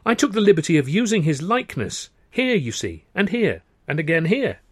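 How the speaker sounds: smooth explaining. Acted. Smoothly fobbing off the suspicious brother.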